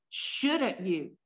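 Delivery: "Shouldn't" weighted, falling at the end; stress on shouldn't. Shown as a demonstration. Preacher voicing the king's rebuke, pressing "Shouldn't". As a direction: lean into "Shouldn't you?". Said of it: "there's the emphasis on shouldn't you".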